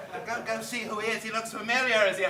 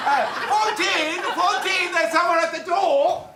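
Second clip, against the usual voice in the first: caricature French maid; 9 semitones higher, 7 dB louder than usual. Acted. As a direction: squeal it like a cartoon French maid. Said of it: "you're a caricature of a French maid".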